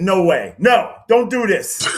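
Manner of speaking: loud, high protest; mock pleading no, loud and high. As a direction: cry out no way in disbelief. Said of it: "And I said".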